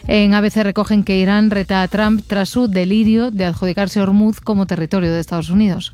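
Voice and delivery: brisk, even headline read; news read. Acted. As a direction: read it as a radio press review. Reads press review headlines.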